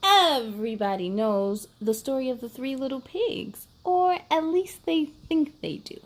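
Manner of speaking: sly wolf narrator telling his side; wolf storyteller. Acted. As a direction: read it as the innocent wolf pleading his case.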